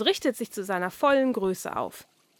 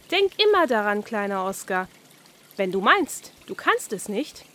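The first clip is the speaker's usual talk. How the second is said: higher, encouraging little fish; lightly voiced carp passing on a lesson; the carp telling Oskar to just imagine he can; carp's advice; 6 semitones higher, 4 dB louder than usual.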